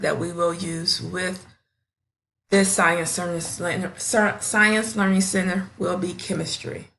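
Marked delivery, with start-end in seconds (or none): 2.5-5.7 real stumble over "Science Learning Center"; tongue-tied. Real, not acted. Teacher presenting her science learning center, tongue-tied. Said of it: "I'm sorry, I'm tongue-tied".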